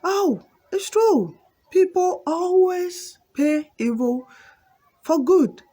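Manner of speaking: high, drawn-out goat voice; emphatic goat. Acted. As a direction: stretch the words out high in emphatic agreement. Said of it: "And goat is like".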